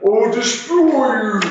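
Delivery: high, bubbling water monster roar. Acted. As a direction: gurgle the threat like a water beast. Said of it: "and he goes".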